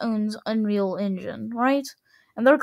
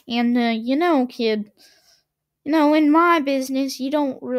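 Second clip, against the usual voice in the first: put-on hammy mobster-style Italian accent; a badly faked Italian accent; fake Italian accent; 3 semitones higher than usual. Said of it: "I'm gonna stop doing a fake Italian accent".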